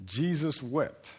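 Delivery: slow, hushed, weighty reading of "Jesus wept"; grave, drawn-out scripture line; solemn slow reading. Acted. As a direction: let "Jesus wept" land slowly and quietly.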